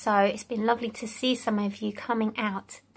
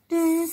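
bee buzz; 4 semitones higher than usual. Shown as a demonstration. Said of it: "sounds of the animals".

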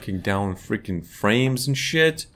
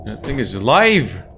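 louder, alarmed outburst; 6 dB louder than usual. Real, not acted. Streamer spotting a living thing in the game, alarmed outburst. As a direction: blurt it out in alarm.

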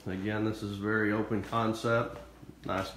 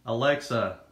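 put-on louder, rural Southern Illinois hillbilly accent; 4 dB louder than usual. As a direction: talk to the speaker in a country hillbilly accent. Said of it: "let's try the hillbilly accent".

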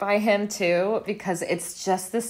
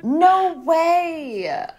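high, loud burst of disbelief; real surprise; 11 semitones higher, 5 dB louder than usual. Real, not acted. Cohost hears Laura Dern voiced the wife, real surprise. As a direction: gasp out no way, higher and louder.

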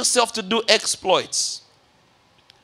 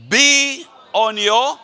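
congregational reading; 3 semitones higher, 3 dB louder, slower than usual. Shown as a demonstration. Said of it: "let's read together".

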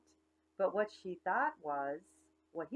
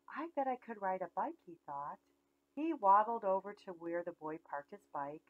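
put-on lively read-aloud for little kids; story narration. A narrator's reading. Teacher reading a picture book to preschoolers, lively storytime. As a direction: tell it like storytime on the rug.

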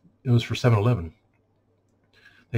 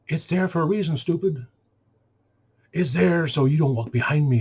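higher-pitched exasperated telling-off; exasperated scolding; 5 semitones higher than usual. Acted. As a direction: scold them as if explaining the obvious. Scolds people who move his display.

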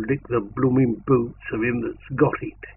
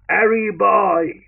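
high, loud, slow call; soldiers' shout; 7 semitones higher, 5 dB louder, slower than usual. Acted. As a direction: stretch the shout across the siding. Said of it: "we shouted".

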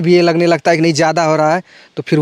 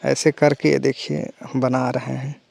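fake beggar; 3 semitones lower, 6 dB quieter, slower than usual. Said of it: "बने हुए भिखारी".

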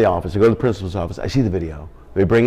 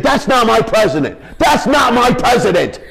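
put-on squeaky kid confession; 13 semitones higher, 5 dB louder than usual. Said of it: "She's like".

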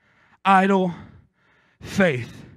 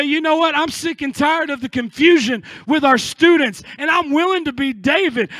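resolved declaration; 3 semitones higher than usual. Acted. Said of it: "people in this community to say".

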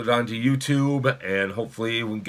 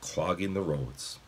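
expressive, measured audiobook reading; story narration. A narrator's reading. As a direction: read the chapter aloud to children. Reads a novel aloud.

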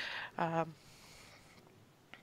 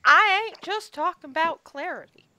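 Lisa pressing; 8 semitones higher, 6 dB louder than usual. Acted. Lisa corrects Sigwald.

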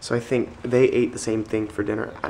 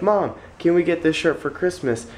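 retold pleading; 7 semitones higher than usual. Retold plea to mom.

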